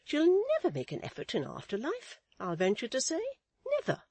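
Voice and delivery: high, emphatic matron voice; deep confidence. A narrator's reading. Mrs Chick confides in Miss Tox about Florence, confiding. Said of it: "said Missus Chick in deep confidence".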